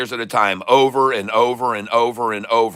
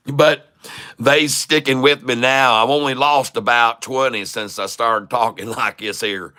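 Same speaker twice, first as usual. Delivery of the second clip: country voice; 2 semitones lower than usual. Pretend. Streamer to Double K, hamming the country voice. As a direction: lay the country accent on. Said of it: "get into my real country voice".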